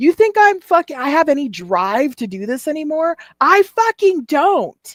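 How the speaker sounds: put-on screamed outburst. Recounting what a man said in a rant, retelling his screaming. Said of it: "he's like screaming it".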